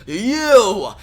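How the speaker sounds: a real shout, pitch jumping up; loud shouted accusation. Acted. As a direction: bellow the word at the enemy. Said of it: "Frost King shouts".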